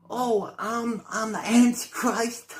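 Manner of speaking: mocking parrot. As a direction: ham up the quote to ridicule it. Parroting MrBeast's line mockingly.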